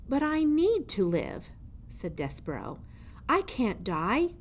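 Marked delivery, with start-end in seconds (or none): 0.1-1.5 higher, pleading mouse voice; desperate little mouse. Acted. 3.3-4.3 higher, pleading mouse voice; desperate little mouse. Acted.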